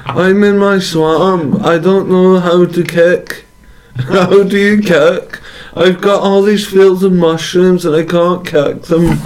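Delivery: lightly voiced Shrek, puzzled; a hint of ogre in his swamp, confused; mild ogre voice wondering how to kick.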